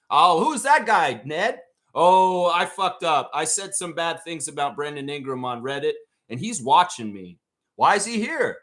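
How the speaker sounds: lightly voiced guilty coworker; panicked Reddit poster. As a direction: play the caught-out critic squirming. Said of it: "I'll follow you all day at work".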